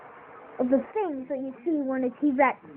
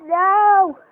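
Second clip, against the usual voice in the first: loud, higher exasperated no; frustrated shout; 6 semitones higher, 10 dB louder than usual. Real, not acted. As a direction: blurt it out in real frustration. Puppet fails again, frustrated cry.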